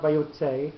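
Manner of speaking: "vayotze" said quickly, tse short; the ordinary "vayotze" without a lengthened tse; plain quick take. Shown as a demonstration. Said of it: "So it's not".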